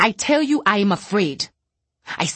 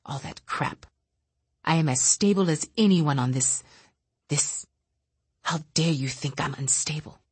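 bitter rant. Acted. Bitter telepath lashing out quietly.

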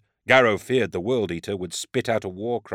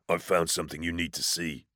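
warning tone; 3 semitones lower, 8 dB quieter than usual. A narrator's reading. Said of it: "a warning in his tone".

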